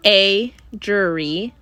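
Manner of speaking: words stretched through a yawn; talking through a yawn. Real, not acted. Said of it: "sorry, yawning".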